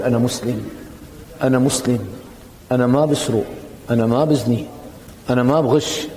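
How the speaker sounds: low, measured statements of principle; steady, low-pitched self-declaration; calm declaration. Acted. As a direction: say each short statement evenly and low, with pauses between. Models standing firm against the current.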